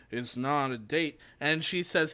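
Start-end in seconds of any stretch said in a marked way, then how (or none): 0.1-1.1 muttered, mumbled under the breath. Retelling a movie scene, a character's reply: imitating mumbling to himself. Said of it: "he mumbles to himself".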